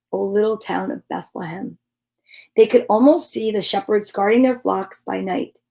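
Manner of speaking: gentle read-aloud storytelling voice; story narration. A narrator's reading. Host reading a Charlie Brown Christmas story to viewers, storytelling voice. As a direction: read it like a bedtime story for kids.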